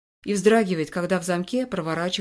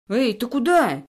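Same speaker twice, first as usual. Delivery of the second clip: panicked cry, raised and higher; terrified shout; 5 semitones higher, 4 dB louder than usual. A narrator's reading. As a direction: yell it in alarm. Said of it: "в ужасе кричит толстячок".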